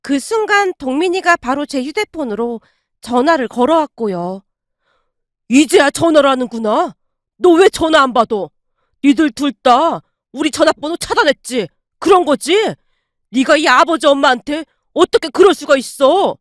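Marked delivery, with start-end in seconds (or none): 5.5-16.4 angry scolding. Acted. Father scolding son on phone.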